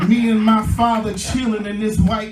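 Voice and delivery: rousing sermon delivery with stretched key words; preaching. Real, not acted. Preacher promising the congregation a new start, preaching with drive.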